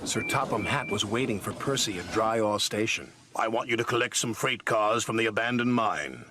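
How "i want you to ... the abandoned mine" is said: boss voice. Acted. Sir Topham Hatt giving orders.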